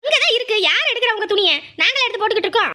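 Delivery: high, indignant comeback; exasperated retort. Acted. Wife telling husband his clothes are right there, exasperated.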